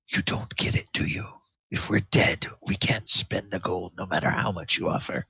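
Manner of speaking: understated exasperation, voice partly hushed; exasperated captain. Acted. Captain answering the player from down below, mildly exasperated. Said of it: "he's feeling exasperated".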